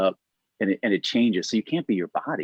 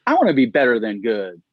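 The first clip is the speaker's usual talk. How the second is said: surprised delight; 2 semitones higher, 5 dB louder than usual. Retold or imitated. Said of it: "She goes".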